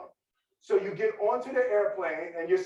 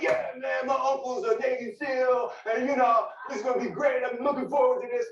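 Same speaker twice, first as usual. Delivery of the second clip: fake bravado; 5 semitones higher than usual. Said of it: "They're like".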